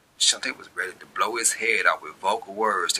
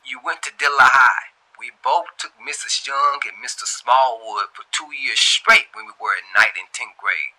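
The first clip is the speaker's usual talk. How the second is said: quick reply; 5 semitones higher, 8 dB louder than usual. A narrator's reading. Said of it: "he quickly said to her".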